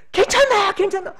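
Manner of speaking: high, loud urgent reassurance; father running to the crash scene, calling loudly; anxious father. Acted. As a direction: rush in calling out that she's fine. Father rushes to his hurt daughter.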